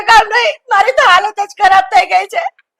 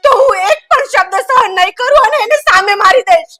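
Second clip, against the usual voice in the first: tearful, worked-up warning; crying threat. Acted. Wife warning husband Sagar about his aunt, crying. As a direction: threaten through tears. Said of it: "રડવાનું બંધ કર".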